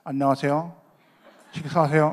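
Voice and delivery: talking with a pen between the teeth. Shown as a demonstration. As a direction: say it around a pen in the mouth. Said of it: "그래서 저도 했죠, 이렇게".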